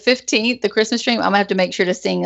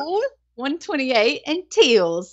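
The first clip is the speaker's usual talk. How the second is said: put-on Southern Belle British accent; 5 semitones higher than usual. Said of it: "Southern Belle British accent".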